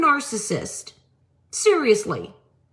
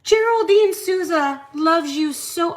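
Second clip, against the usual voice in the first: mock third-person self-talk; 4 semitones higher than usual. Shown as a demonstration. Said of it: "This would be me".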